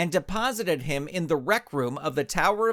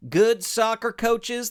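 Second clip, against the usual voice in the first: slow, much higher, louder disbelief; incredulous shout; 9 semitones higher, 4 dB louder, slower than usual. Acted. Ranch hand turns on his partner, shouting incredulously. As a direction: spit the phrase back in outrage. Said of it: "the mighty ranch hand shouted".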